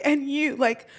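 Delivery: a stern warning broken by laughter; laughing mock warning. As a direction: imitate his threat while giggling. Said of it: "he's like".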